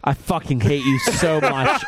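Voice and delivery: slow, laughing outburst; laughing mock anger. Real, not acted. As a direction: fake fury through laughter.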